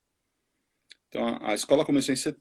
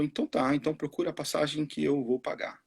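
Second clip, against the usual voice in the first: imitating an English accent in Portuguese, much higher; light mock English-accented Portuguese, pitched up; Samoan English accent; 4 semitones higher than usual. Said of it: "Ele fala assim, desse jeito". (imitação leve de sotaque inglês, bem mais aguda)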